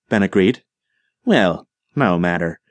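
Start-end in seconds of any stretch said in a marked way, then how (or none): 1.2-2.6 slow, hammed-up British accent, lightly done; exaggerated British accent. Monty mocks the British to Tom, in a slow exaggerated British accent. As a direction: put on a mock posh British accent. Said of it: "he affected an exaggerated accent".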